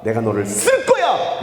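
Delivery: emphatic preacher voicing God's promise; God declaring. Preacher quotes God to the congregation, emphatic declaration. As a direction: proclaim it as God's own word.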